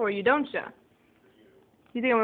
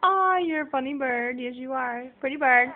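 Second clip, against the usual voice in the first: cooing at the bird; 2 semitones higher than usual. Real, not acted.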